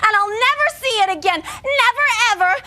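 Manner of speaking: mock wailing. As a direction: wail over the lost ball. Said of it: "Now I have to cry".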